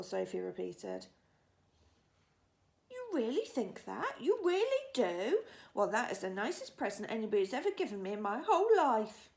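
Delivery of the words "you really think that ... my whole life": excited cry. Acted. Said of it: "cried the B F G".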